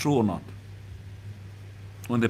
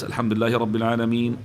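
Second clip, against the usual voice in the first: fast, clipped, no melody; quick silent-prayer recitation; much faster than usual. Shown as a demonstration. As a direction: rattle it off quickly without tune. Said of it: "But when you recite silently, you do like this".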